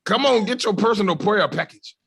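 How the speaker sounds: high, loud televangelist sales pitch; hammed-up screaming pitchman. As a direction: shout it like an infomercial preacher. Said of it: "they got the black dude screaming".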